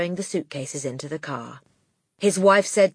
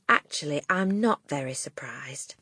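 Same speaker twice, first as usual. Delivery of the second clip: quiet teacher; 2 semitones lower, 5 dB quieter than usual. Acted. Miss Honey voiced.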